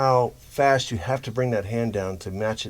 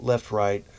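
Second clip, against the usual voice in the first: quick left-right; left-right said briskly as a fast pair. Shown as a demonstration. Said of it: "a fast".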